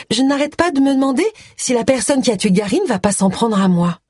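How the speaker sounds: high-pitched worried confession; anxious. Acted. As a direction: voice lifted with mild fear. Nervous wife fears the killer.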